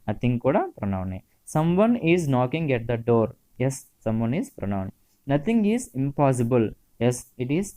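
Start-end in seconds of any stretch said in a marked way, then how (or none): 1.6-3.3 slow dictation. Shown as a demonstration. Teacher dictating example sentence. 5.3-6.7 slow dictation. Shown as a demonstration. Teacher dictating example sentence.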